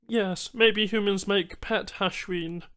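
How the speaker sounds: high, slow alien voice; patient alien explaining slowly; alien Banu trader. Acted.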